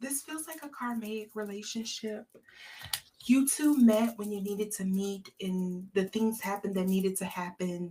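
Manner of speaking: hushed, lofty stage whisper in a soft little voice. Reading cards for someone and getting lofty, in a little half-whisper voice. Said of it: "in my little whisper voice".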